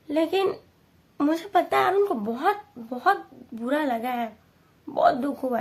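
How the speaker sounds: sad and choked; upset. Real, not acted. Grief over parents' disappointment.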